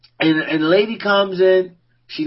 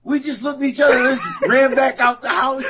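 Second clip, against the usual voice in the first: laughing; 6 semitones higher than usual. Real, not acted. Quoting while cracking up.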